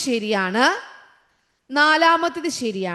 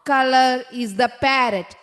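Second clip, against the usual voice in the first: each word drawn out very slowly; slow dictation; much slower than usual. Shown as a demonstration. Teacher reading the quiz sentence to her class, very slow. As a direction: spell it out slowly for young pupils.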